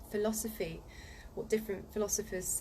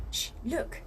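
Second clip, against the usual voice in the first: hushed whisper; Susan shushing; 5 semitones higher than usual. Acted. Susan spotting something in the trees, hushed whisper. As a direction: breathe it urgently. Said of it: "said Susan".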